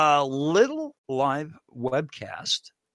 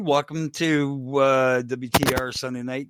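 clipping distorted mic; crackly broken mic sound; crackling mic. Real, not acted. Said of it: "your mic is crackling as you're doing the intro".

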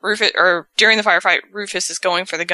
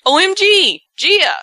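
high, loud excited cry of a name; excited squeal; 13 semitones higher, 6 dB louder than usual. Retold or imitated. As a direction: squeal her name with joy. Excited reunion quote, high and loud.

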